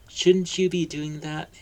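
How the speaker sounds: put-on a boy puzzling at the adults; boy's inner voice. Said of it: "Harry thought".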